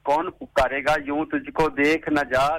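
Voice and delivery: slow, drawn-out recited verse; poem recitation. Shown as a demonstration. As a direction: recite it slowly with feeling. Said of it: "शायरी है जी song के साथ related".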